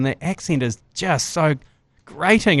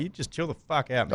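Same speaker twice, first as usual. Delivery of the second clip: muttered telling off; 6 dB quieter than usual. Retold or imitated. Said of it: "were like".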